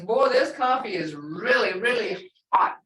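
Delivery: weight on both "really"s in "really, really hot"; exaggerated emphasis. Shown as a demonstration. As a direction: stress "really, really" as an exclamation. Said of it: "you're exaggerating it".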